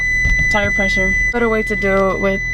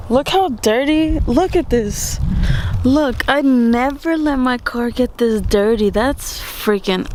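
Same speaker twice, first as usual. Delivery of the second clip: slow, dragged-out dismay at the filth; disgusted complaint; 3 semitones higher, 3 dB louder, slower than usual. Real, not acted. Showing viewers how dirty the car got, disgusted. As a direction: exclaim it in real exasperation, drawing out the words.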